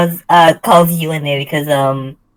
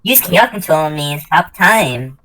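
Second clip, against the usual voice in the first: voice acting Blaze; 3 semitones lower than usual. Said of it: "let me voice act Blaze".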